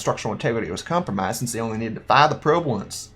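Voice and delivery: lightly voiced cowboy. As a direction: read it out with a hint of cowboy accent. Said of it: "like, a cowboy voice".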